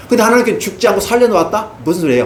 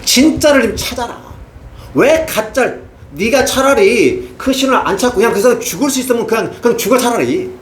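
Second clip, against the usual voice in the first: raised pleading voice of God; voicing God's plea; 5 semitones higher than usual. Preacher speaking as God to Ahaziah, pleading. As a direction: plead as God with a wayward king.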